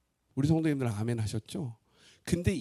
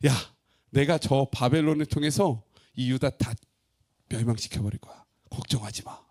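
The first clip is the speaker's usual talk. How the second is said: God's calm reply; 2 semitones lower than usual. Acted. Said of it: "하나님이 응답하시는 거예요".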